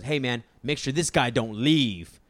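lightly voiced bouncer, slowed down; a hint of stereotypical tough-guard talk; stereotypical security guard. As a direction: imitate a bouncer giving slow orders. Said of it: "that's exactly how he sounded".

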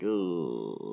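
low reluctant ooh at the music; a wincing low ooh; disapproving ooh. Retold or imitated. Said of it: "that's my exact sound".

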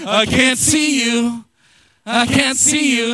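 loud, drawn-out hide-and-seek call; slow, playful parent call; pretending not to see. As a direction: play along with the hiding kids, stretching it out. Playing hide and seek with kids.

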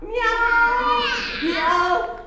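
high rising meow. A narrator's reading. Cat up in the tree meowing, high. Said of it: "E o gato?".

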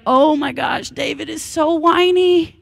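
loud, high, mocking scoff at a whiny king; scoffing teen. Pastor mocking his teenage self, scoffing at David's laments. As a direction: sneer like a bratty thirteen-year-old who thinks David is a crybaby. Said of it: "I'd be like".

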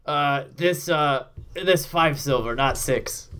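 lightly voiced slow orc counting coins; half-orc bartender. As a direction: plod through the count like a dim orc. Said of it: "counts it and puts it on the ground and goes".

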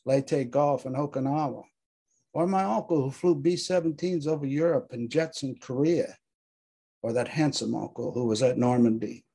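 measured, solemn recitation; dramatic reading. Acted. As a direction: read it like a memorial poem.

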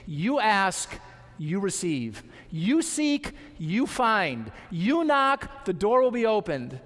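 each promise punched, rising then firmly landing; emphatic preacher quoting a promise. Acted. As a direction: hit "ask", "seek" and "knock" hard, then resolve each. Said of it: "It's emphatic".

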